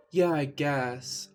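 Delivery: slow unsure. Acted. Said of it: "I lied".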